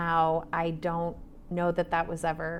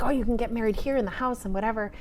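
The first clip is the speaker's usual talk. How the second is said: mock excitement; 5 semitones higher, 3 dB louder, faster than usual. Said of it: "loses herself in enthusiasm and excitement".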